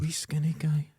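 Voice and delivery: breathy whispered aside. Shown as a demonstration. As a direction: whisper it secretively. Whispered then repeated louder.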